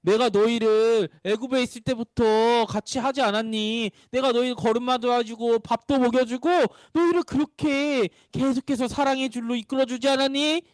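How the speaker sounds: lightly voiced God, patiently reproachful; God pleading gently. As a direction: plead without anger, stretching the phrases. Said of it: "화를 내기보다 이렇게 말씀하셨어요".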